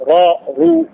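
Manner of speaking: را، رو with thick, heavy R. Shown as a demonstration. Teacher drills the vowels for students, heavy R in را، رو. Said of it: "يبقى التشديد بالفتح تفخيم".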